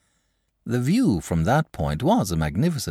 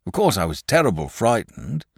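lightly voiced rustic shepherd, higher; a hint of a frightened countryman; worried country shepherd; 4 semitones higher than usual. Shepherd goes on with tale.

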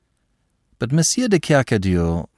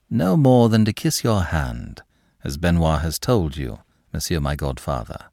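submissive; 3 semitones lower than usual. Acted. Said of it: "said André Louis submissively".

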